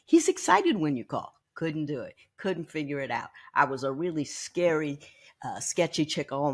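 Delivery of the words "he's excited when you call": high, louder coaxing mother voice; mother urging her teen daughter to phone, high and louder. Retold or imitated. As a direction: play mom talking her shy girl into it, pitched up and bright with push. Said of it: "My mother says".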